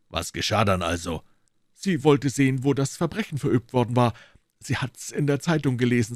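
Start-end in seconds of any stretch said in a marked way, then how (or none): 1.8-6.1 higher, apologetic policeman making excuses; a guilty constable pleading innocence; mildly voiced, embarrassed guard; sheepish constable.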